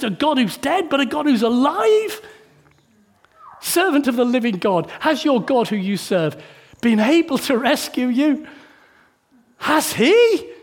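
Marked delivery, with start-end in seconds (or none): 3.6-10.5 anguished plea. Acted. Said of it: "in an anguished voice".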